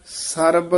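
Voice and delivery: ਸਰਬ ending on a crisp b sound; clear final b. Shown as a demonstration. Teacher stresses the final letter of ਸਰਬ, crisp. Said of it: "ਬੱਬੇ ਨਾਲ ਉਚਾਰਨ ਕਰਨਾ ਹੈ".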